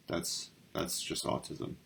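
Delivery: under the breath, slow; whispered aside. Real, not acted. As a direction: say it half to yourself. Muttered aside reading definition.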